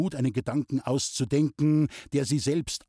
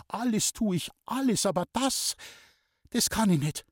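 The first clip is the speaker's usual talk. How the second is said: agitated; 9 semitones higher than usual. Acted. Loni's agitated refusal.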